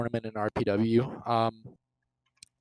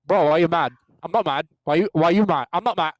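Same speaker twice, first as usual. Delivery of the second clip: mock argument; 3 semitones higher, 5 dB louder than usual. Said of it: "You do it so well".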